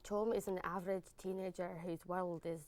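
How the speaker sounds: put-on Scottish accent. Guest reads the film blurb on request, Scottish accent. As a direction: read it as a Scot. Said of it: "in a Scottish accent".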